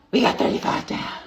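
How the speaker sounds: breathy whisper of the same count; whispered repeat. Real, not acted. Host repeating the squat count to viewers in a whisper. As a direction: say it again under your breath.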